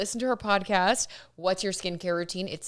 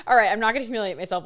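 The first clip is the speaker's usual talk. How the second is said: laughing; 2 semitones higher, 5 dB louder, much faster than usual. Real, not acted. Laughing after aborted accent.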